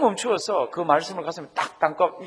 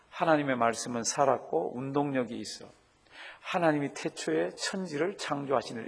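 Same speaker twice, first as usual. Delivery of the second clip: soft, low murmured scripture reading; reading aloud demo; 3 semitones lower, 5 dB quieter than usual. Shown as a demonstration. Pastor showing how to read scripture aloud to yourself, soft murmur. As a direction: mouth the verse half aloud. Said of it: "이렇게 하시면요".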